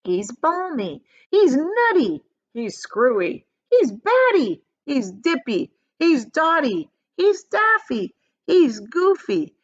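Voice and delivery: high, loud, slow panicky insults; chorus of shouting parents. A narrator's reading.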